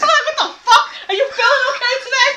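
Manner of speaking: high-pitched mock disbelief; quick, incredulous imitation of asking; retold bewilderment. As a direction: act out being baffled, voice up high. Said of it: "I'm like".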